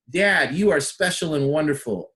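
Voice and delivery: lifted, emphatic compliment; with an exclamation point. Shown as a demonstration. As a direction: praise dad with real punch. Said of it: "Exclamation point".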